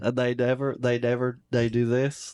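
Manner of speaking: stuffed-up North Alabama accent demo; no-nose Alabama accent. Shown as a demonstration. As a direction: keep the nose out of every word. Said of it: "decided against using their nose".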